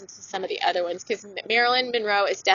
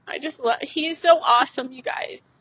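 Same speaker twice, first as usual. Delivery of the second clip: getting emotional; 5 semitones higher than usual. Real, not acted. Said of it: "I'm gonna get emotional".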